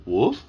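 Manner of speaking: short rising dog bark, spoken; questioning woof. A narrator's reading. Puppy asks his young owner what to do, questioning woof. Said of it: "although it came out".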